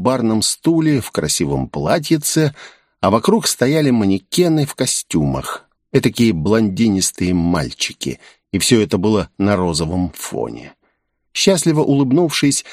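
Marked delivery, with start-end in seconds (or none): none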